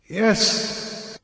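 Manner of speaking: faint whispered yes; barely able to speak after the fall; answering weakly. A narrator's reading. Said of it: "I answered weakly".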